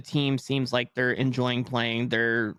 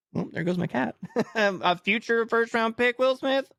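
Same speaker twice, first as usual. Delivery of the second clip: laughing joke; 10 semitones higher than usual. Retold or imitated. Joking quote of own reaction.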